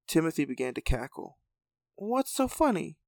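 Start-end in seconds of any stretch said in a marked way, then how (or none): 1.9-3.0 character voice. Acted. Character voice asking Jack.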